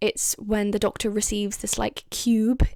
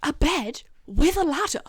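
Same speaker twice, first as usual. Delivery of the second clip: whispered question; 5 semitones higher than usual. Acted. Rory doubts the Doctor's bunk bed plan, whispering. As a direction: whisper it in disbelief.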